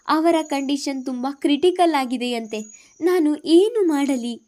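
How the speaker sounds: a scared son losing his composure; frightened. Acted. Son telling his mother he is terrified, rising helpless plea.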